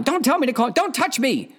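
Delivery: imitating a girlfriend who won't be calmed; mock angry snap. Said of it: "she's screaming at me".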